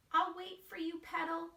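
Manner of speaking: put-on high small child voice; little mouse voice. Wemberly peeking at her parents, high and timid. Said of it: "she's saying".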